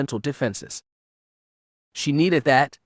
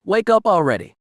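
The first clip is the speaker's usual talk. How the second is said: higher, louder urgent call; shouting; 7 semitones higher, 4 dB louder than usual. A narrator's reading. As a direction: shake her awake with your voice. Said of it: "she shouted".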